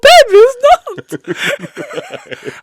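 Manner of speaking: teasing high-pitched imitation; mock coy refusal. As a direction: play the shy teammate in a squeal.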